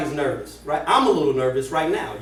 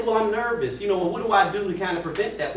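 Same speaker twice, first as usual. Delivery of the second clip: higher, worried asking; a hint of a nervous job seeker; nervous trainee voice; 4 semitones higher than usual. To the trainer, a nervous job seeker asking for help. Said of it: "you might say".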